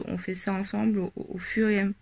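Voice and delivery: talking through hiccups; speech broken by hiccups. Real, not acted. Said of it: "Désolée, j'ai le hoquet".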